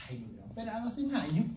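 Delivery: quick, laughing "ay" of relief. Retold or imitated. Patient after surgery, glad at last, laughing. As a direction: toss it off with a chuckle, glad it's done.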